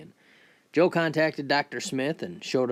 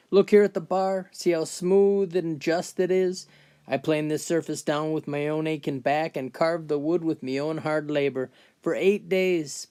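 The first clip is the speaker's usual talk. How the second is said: put-on higher-pitched boastful old-timer; McGregor, proud old man; 4 semitones higher than usual. Old man boasting to a lad about his fence, proud and aggrieved. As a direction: play an old builder proudly listing his work.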